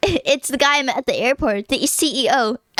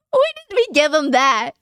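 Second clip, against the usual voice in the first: mock whine; 3 semitones higher than usual. Real, not acted. Whiny mock cry at choice.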